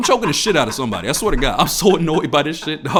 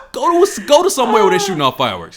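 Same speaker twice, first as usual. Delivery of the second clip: loud exasperated rant; ranting shout; 5 semitones higher, 4 dB louder, faster than usual. Real, not acted. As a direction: shout it out at them. Ranting at neighbors.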